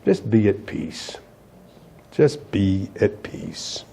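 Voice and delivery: low, hushed and slow; quiet pastoral calm, almost murmured; soft reassurance. Real, not acted. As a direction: settle them gently into peace. Calming the congregation softly.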